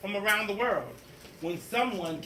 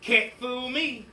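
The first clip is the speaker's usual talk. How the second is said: smug principal; 5 semitones higher, 4 dB louder, slower than usual. Acted.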